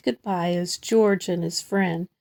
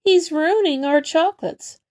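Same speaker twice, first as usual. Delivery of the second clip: mock angry outburst; 7 semitones higher, 4 dB louder than usual. Tour guide's angry outburst.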